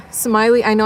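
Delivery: talking through a yawn; stretched out mid-yawn. Real, not acted. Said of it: "I'm sorry I'm yawning".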